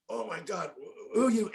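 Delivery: high, breathless mock fright; mock startled fugitive. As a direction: play the caught man, startled. Fugitive startled during bust.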